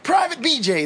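high barking drill sergeant. Retold or imitated. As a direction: bark the name like a drill instructor. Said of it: "they're like".

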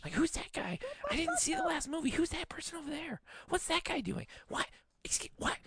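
mocking a chatty audience member; clueless chatty moviegoer. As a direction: play the oblivious guy asking dumb questions. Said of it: "I don't understand, like".

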